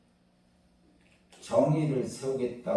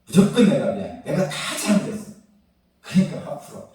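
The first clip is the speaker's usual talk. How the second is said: hasty apology to wife, rising to louder begging; mock pleading husband, louder toward the end; 7 semitones higher, 9 dB louder than usual. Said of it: "그럼 제가 어떻게 사과하냐면". (아내에게 급히 사과하는 남편처럼 애원조로)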